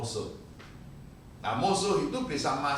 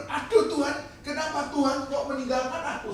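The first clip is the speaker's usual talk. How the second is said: re-enacted despairing plea; 10 semitones higher, 3 dB louder than usual.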